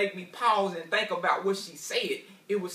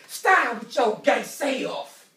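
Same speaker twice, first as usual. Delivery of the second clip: wife's scolding; 4 semitones higher, 8 dB louder, much slower than usual. Retold or imitated. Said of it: "She said".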